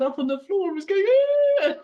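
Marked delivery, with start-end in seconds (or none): 1.6-1.7 mock baby cry. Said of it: "crying like a baby".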